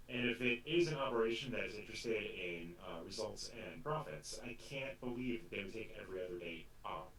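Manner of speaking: flat robot voice; deadpan robotic delivery. Acted. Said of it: "You can't tell by my robot voice?".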